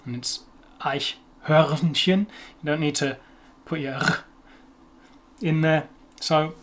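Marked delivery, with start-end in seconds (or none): 0.8-2.2 Eichhörnchen slowly, with a silent R; no rolled R. Shown as a demonstration. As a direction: draw out Eichhörnchen, leaving the R unpronounced. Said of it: "you don't have to pronounce it".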